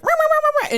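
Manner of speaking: high, loud mock ranting noises, rah rah; a dad yelling at the dealer, mocked as loud rah rah. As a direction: imitate a dad yelling down the phone. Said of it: "in the guy's ear".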